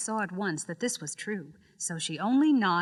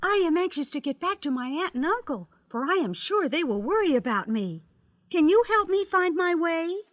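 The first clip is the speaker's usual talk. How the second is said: put-on little girl voice; 7 semitones higher, 4 dB louder than usual. Dorothy voiced in story.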